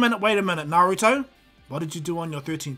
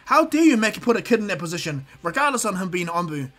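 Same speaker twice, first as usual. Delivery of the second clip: angry scolding; 3 semitones higher, 6 dB louder than usual. Acted. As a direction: tear into Kakashi for endangering a kid. Kurenai scolds Kakashi after punching.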